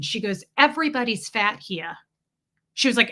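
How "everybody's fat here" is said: imitated New York woman; lightly put-on New York accent, dropped R's. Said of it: "she sounded like my Russian doctor".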